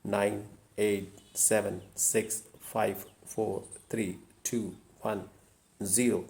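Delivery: unhurried meditative backward count; calm countdown. Shown as a demonstration. Demonstrates a calming backward countdown.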